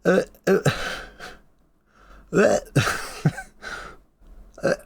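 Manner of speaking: hesitant high halting uhs; warming up a bad Walken voice; Christopher Walken stammer. YouTuber warming up his Walken impression, halting. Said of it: "try out my Christopher Walken impression".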